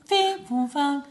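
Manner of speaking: high tooted mock recorder notes; imitated recorder jingle. Mocking how recorders only play advert jingles, imitated high toots. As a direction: toot out a silly recorder jingle.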